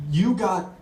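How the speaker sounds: drawn-out puzzled question, lightly French; slow incredulous question. Retold or imitated. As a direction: coworker baffled at the tray. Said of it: "one finally turns to me and goes".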